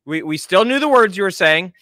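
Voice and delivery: ordinary delivery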